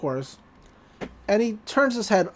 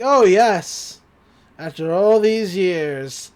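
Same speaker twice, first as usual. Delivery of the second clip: sinister, drawn-out savouring; kinda sinister; 5 dB louder, much slower than usual. Retold or imitated. Old man taking back his journal after years, sinister. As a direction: savour it slowly with a hint of menace. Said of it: "which is kinda sinister".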